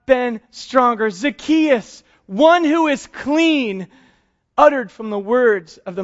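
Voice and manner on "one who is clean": one who is clean drawn out slowly, stress on one; slow each word of one who is clean, leaning on one; slow emphatic. Shown as a demonstration. Preacher spelling out the name's meaning, slow and emphatic.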